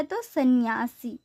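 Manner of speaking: slow, deliberate सन्यासी, each syllable clear; teacher pronouncing सन्यासी slowly for students; careful spelling-out. Shown as a demonstration. Teacher tells class: slowly say सन्यासी. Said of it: "कौन सा रूप शुद्ध है?".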